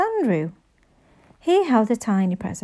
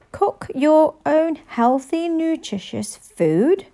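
higher, slow, disgusted reading; mock-reading the title; 7 semitones higher, slower than usual. A narrator's reading. Henry reading the cookbook title with disgust, slow. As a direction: spell it out with distaste.

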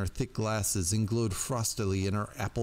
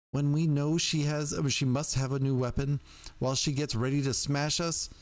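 higher, insistent indignant pleading; strident indignation; 5 semitones higher than usual. Acted. Jerky-voiced witch argues against waiting, stridently indignant. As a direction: press the point, stridently indignant. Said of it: "stridently indignant".

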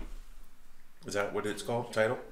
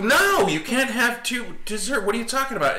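exaggerated parental exasperation, pitched way up; mock disbelief; 11 semitones higher than usual. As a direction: retell a parent's baffled scolding. Retelling parents refusing again.

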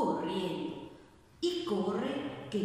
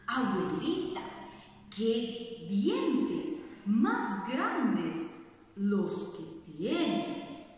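stammering; much slower than usual. Acted. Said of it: "tartamudeó la niña".

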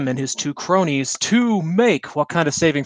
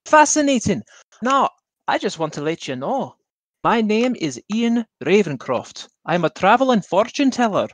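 lightly voiced smooth showman fortune teller; 4 semitones higher than usual. Player voices a fortune teller charming the princess's rival, lightly theatrical. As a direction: pitch your fate like a travelling seer.

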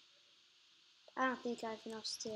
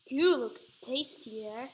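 slow taunt; 6 dB louder, slower than usual. Pretend.

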